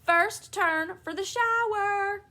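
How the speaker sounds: high, loud crowing laugh and drawn-out shout; gloating shout. A narrator's reading. Father racing to the bathroom first, gloating shout. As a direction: crow it out triumphantly, slowly. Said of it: "shouting at the top of his voice".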